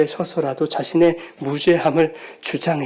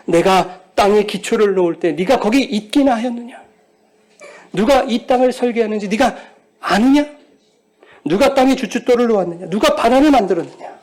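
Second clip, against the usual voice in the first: higher, louder rhetorical questions; God's challenge; 4 semitones higher, 4 dB louder than usual. Retold or imitated. Pastor voicing God challenging Job, commanding. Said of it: "이렇게 말씀하시는 거예요".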